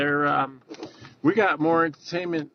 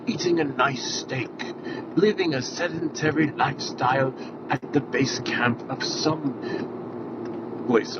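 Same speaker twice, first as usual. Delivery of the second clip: nature documentary. Pretend. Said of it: "Who's that famous documentary narrator?".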